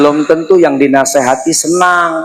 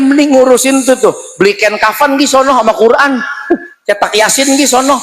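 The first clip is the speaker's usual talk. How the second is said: a hint of a rude youngster, higher and quick; rude young person; 5 semitones higher than usual. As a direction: sneer at the old woman. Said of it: "acting the scolding youth". (suara anak muda kurang ajar)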